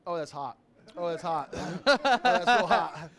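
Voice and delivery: burning mouth, laughing through it; mouth full of hot food. Real, not acted. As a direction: talk around a scalding bite. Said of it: "It, it burnt my tongue".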